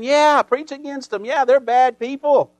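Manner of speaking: mock crowd hollering in agreement; cheering crowd. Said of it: "They're hollering".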